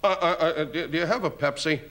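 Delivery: lightly voiced hesitant stammer; stammering Bob Newhart. Guest imitating Bob Newhart's hesitant stammer at a posh club. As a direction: stammer through it politely. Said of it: "kept saying".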